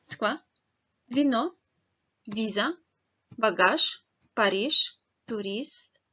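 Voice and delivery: each word said crisply for learners to repeat; clear Russian drill. Shown as a demonstration. Teacher leading learners through words, clear drill. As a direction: model every word clearly with pauses to repeat. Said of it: "Remember to read the words with me".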